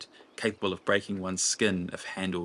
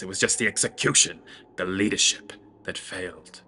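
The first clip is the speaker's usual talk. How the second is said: lightly voiced lordly orator, scornful and lofty; Ithgrod's voice; 5 dB louder than usual. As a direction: preach it like a disdainful would-be emperor. Ithgrod continues his speech.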